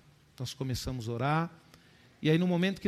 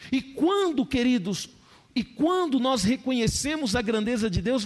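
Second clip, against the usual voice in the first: loud climax; 8 semitones higher, 6 dB louder than usual. Acted. Repeats it louder.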